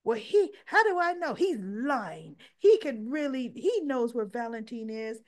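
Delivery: mock the frantic mother's outburst; upset accusation. Lulu protests to Carly that Jack is lying, loud and heated.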